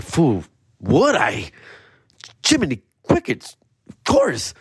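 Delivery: high-pitched gushing; excited. Retold or imitated. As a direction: squeal it like a thrilled kid. Excited self quote.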